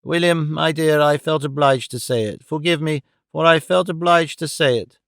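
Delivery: put-on gentle, apologetic old brother; a touch of tender remorse; mildly softened plea for forgiveness. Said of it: "said in a softened voice".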